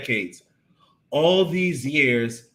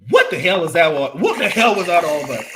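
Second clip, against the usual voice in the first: frustrated; 3 semitones higher, 7 dB louder, faster than usual. Retold or imitated. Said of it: "My frustration level just went off the chain".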